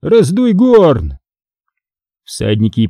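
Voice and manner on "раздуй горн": high, acted command; curt order. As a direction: order the apprentice to work. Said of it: "Потом коротко о Никишке". (приказ подмастерью, высоким голосом)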